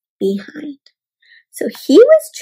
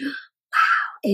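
amazed gasp; 3 semitones higher, 6 dB quieter than usual. Real, not acted. Reacts to the mental battle.

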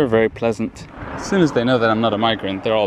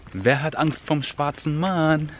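slow, higher playground call; children's game call; 6 semitones higher, slower than usual. Retold or imitated. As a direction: call it out like the catcher in a kids' game. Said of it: "And then the catcher would yell".

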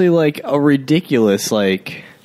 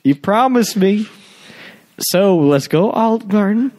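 mock nagging wife; 5 semitones higher than usual. Playing the wife.

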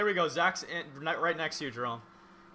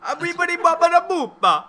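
high, loud mock Italian singsong; 12 semitones higher, 6 dB louder than usual. Joking about Italians, a loud mock Italian babble. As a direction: ham up a cartoon Italian. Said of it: "that's what Italians do".

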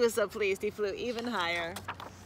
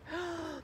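higher, softer intake of breath; startled gasp; 7 semitones higher, 7 dB quieter than usual. A narrator's reading. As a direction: gasp at the sight of the snake. Snake discovered.

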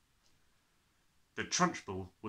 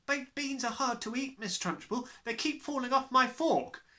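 put-on boy's voice; 13 semitones higher than usual. Nigel replies.

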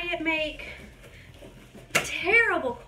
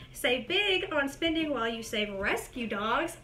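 brisk read of the booklet text, slightly fast; quick reading aloud. Acted. Reading the booklet to viewers, quick and brisk. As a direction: rattle through the fine print.

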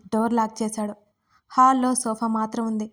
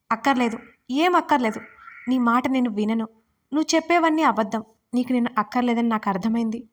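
a mild read-aloud shout, refusing to listen. Acted. Wife mildly shouting him down, refusing to listen. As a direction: cut him off with rising protest. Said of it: "Swara అరుస్తోంది".

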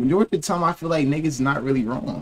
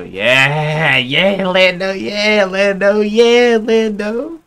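starting plain and climbing higher and louder each call; building hype greeting; 7 semitones higher, 5 dB louder, much slower than usual. Real, not acted. Streamer greeting chatter Lando, rising into an excited call. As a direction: get more hyped every time you say the name.

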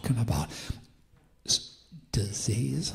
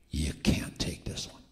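mocking, taunting; 7 semitones lower than usual. Voice of darkness to the church, mocking. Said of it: "there comes a mocking, taunting voice".

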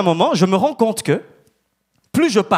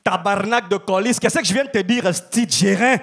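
acted Québécois swearing; 3 semitones higher than usual. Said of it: "il faut que je sois intégré".

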